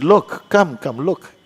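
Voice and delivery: high, insistent calling over; urgent summons. Retold or imitated. Hostess calls friend to inspect the cupboard, insistent. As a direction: act out beckoning someone to come and see.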